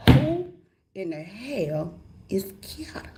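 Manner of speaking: slow, threatening whisper; menacing whisper. Retold or imitated. Wife demanding who Kiata is, a slow threatening whisper. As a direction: hiss the question slowly. Interrogating husband after slap.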